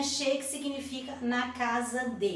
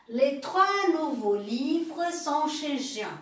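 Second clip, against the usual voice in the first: slow, clear French with the pitch raised; slow model sentence; 4 semitones higher, slower than usual. Shown as a demonstration. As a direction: read it slowly for the class. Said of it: "Uma outra frase". (frase modelo lenta)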